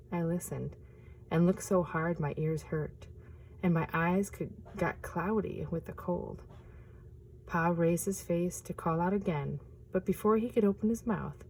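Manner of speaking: gentle picture-book reading; storyteller reading aloud; story narration. A narrator's reading.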